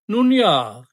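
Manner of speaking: calling out. A narrator's reading. Guard calls to the girl impatiently, calling out. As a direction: hurry her along with a call.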